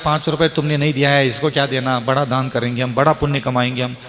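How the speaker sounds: lightly voiced dismissive aside, low and quick; dismissive donor. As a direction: brush it off softly, as if to oneself. Voices a donor brushing off beggar.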